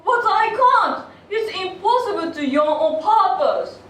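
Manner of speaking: laughing. Acted. Laughing refusal to the king.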